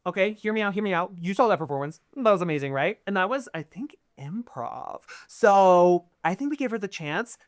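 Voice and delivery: excited pitch. Acted. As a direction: talk the others round, all excited. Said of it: "Lady Isolde from Canada Sideline goes".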